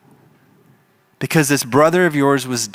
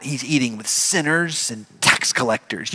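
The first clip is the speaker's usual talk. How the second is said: spat out; 4 dB quieter than usual. Acted. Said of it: "they kinda spit out".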